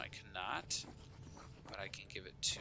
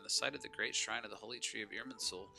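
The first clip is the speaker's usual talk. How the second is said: storybook chronicle narration; measured narrator, slowing on the final verdict; event text read-aloud. A narrator's reading. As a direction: read it out like a dramatic news bulletin. Reads game event text aloud.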